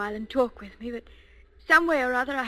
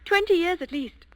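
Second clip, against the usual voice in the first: whisper; 7 semitones higher, 4 dB louder than usual. Acted. Flirting bookshop lady.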